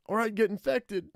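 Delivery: put-on high-pitched girl voice, rattled; frightened teenage girl. Same girl goes on.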